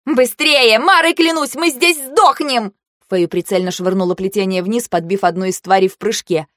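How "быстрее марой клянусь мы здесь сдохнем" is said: high, frantic warning; voiced as a panicked battle cry; panicked urging. A narrator's reading. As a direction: hurry them up in a raised, urgent voice. Urgent cry amid battle.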